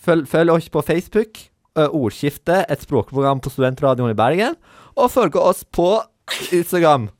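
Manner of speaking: put-on baby talk. Presenter plugging social media as a penalty, put-on baby talk. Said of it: "på babyspråk".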